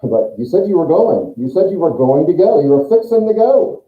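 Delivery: indignant protest, climbing in pitch; acted accusing protest; disappointed hungry person. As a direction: complain as someone let down, building to the end. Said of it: "you can disappoint hungry people later".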